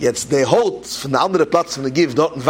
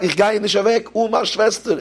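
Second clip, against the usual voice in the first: raised pleading cry; child's shout; 7 semitones higher than usual. Retold or imitated. Boy refuses to leave without his sister, raised pleading cry. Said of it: "Und er schreit".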